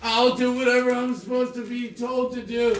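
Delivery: high, loud, desperate plea; panicked pleading. Real, not acted. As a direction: beg them to believe you. Detainee pleading loudly.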